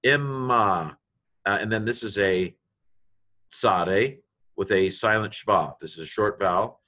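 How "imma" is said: "Imma" with a lengthened M in the middle; held M. Shown as a demonstration. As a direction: stretch the doubled M in "Imma". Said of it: "hold the M a little bit longer".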